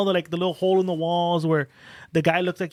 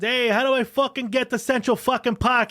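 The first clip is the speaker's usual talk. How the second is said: higher, slow mock New York Italian mobster; Sopranos Italian tough guy; 6 semitones higher than usual. Tourist imagines bullying a pretzel vendor, mock New York Italian mobster. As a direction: lean into a Sopranos-style Italian wiseguy demand. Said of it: "I should have spoke to him like a soprano, like Italians".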